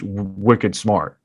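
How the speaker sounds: Boston 'wicked smart', broad vowels; Boston accent. Real, not acted. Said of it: "Boston accent over here".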